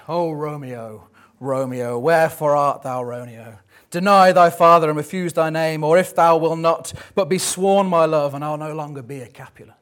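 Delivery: a hint of a yearning Juliet calling into the night; Juliet's balcony speech. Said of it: "Juliet speaking from her balcony".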